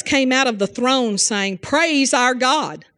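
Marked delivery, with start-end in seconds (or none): 1.6-2.8 solemn scripture reading. Acted.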